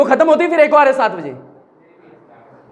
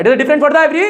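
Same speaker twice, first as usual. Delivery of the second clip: said with feeling. Shown as a demonstration. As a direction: put real feeling into it this time. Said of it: "बे यार feel नहीं आया". (जोश और feel के साथ ज़ोर से बोलना)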